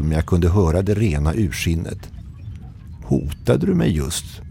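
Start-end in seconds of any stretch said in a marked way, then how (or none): 3.0-4.4 slow and higher, cold disbelief; icy, furious. A narrator's reading. Rudolf to the captain over the radio, slow icy anger. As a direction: ask it slowly with suppressed rage. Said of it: "Rudolfs röst var iskall".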